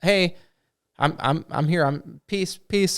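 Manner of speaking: hammed-up yell without real volume; mock goblin yell. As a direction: imitate a goblin calling out, pleading peace. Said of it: "starts yelling, and was like".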